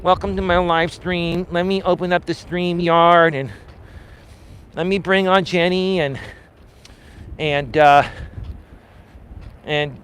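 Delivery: mock boring YouTuber. Mocking boring YouTubers for the chat, hammed-up dull small talk. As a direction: parody a boring streamer greeting his guests. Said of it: "I'm not a boring guy like most YouTubers are boring".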